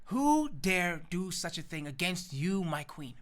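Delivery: slow, indignant royal demand; acted regal anger, drawn out; enraged king. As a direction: demand it with measured outrage. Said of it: "The king is enraged upon hearing this and says".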